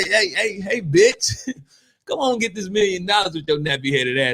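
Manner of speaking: loud, high, crude mock greeting; hammed-up rude offer shouted cheerfully; rude caller. To a woman offered a million, loud crude mock greeting. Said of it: "if I say".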